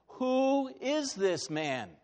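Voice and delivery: slow, weighty question; preacher pondering aloud, slow; slow rhetorical question. Real, not acted. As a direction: let each word land slowly.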